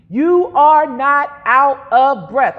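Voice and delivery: slow, emphatic call to repeat; led declaration. Shown as a demonstration. Preacher leading congregation to say it together, slow and emphatic. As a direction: lead the words firmly and slowly. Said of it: "Say it with me".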